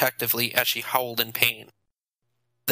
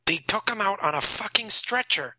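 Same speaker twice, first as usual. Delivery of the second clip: Nathan bragging; 8 semitones higher than usual. A narrator's reading. Nathan gleefully describing gore.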